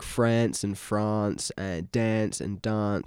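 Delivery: slow, each word said first with a short a, then a long "ah"; host showing the South Australian vowel; Sydney and Adelaide vowels. Shown as a demonstration. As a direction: contrast France and dance with short then long a. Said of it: "a different sounding accent".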